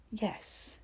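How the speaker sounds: whispered yes; soft. A narrator's reading. Boy quietly realising who told, whispered. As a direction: barely breathe the word. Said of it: "he said softly".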